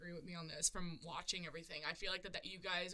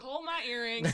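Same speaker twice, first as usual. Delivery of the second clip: hood attitude; 5 semitones higher, 10 dB louder, slower than usual. Retold or imitated. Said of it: "like, hood, like".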